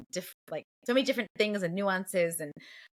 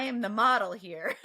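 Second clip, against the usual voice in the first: laughing self-mockery; 2 semitones higher than usual. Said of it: "and I'm like".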